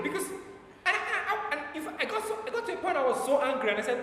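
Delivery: laughing through the words, quick; can't keep the laugh out, rushing. Real, not acted. Preacher recalling the bad news, laughing as he tells it. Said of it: "And I was just laughing".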